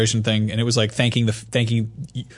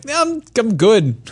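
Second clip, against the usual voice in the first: higher, slow, nervous no-thanks; wary mock decline, higher and slow; nervous refusal; 9 semitones higher, much slower than usual. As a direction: back away from spider VR, drawn out. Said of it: "And I'm like".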